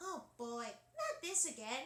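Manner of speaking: high, swooping cartoon voice. Comparing two cartoon voices, then Dot's line: Dot Warner voice. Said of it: "Dot's more like".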